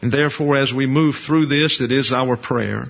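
earnest preacher's prayer to close the lesson; closing prayer. Real, not acted. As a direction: pray it sincerely to the Father.

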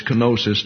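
kenosis said kuh-NO-sis; popular pronunciation. Shown as a demonstration. Teacher conceding to common usage, kenosis as kuh-NO-sis. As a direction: stress on NO in kenosis. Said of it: "not gonna argue with City Hall".

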